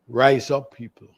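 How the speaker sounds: loud rallying call; fiery revolutionary speech. Real, not acted. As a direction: call the people to rise up. Caller rallies listeners to rise.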